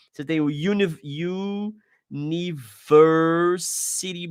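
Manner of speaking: university drawn out slowly, uni said as "you-nee"; slow demo of university; English university. Shown as a demonstration. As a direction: stretch university to show the Y sound. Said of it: "porque eles têm o som de J".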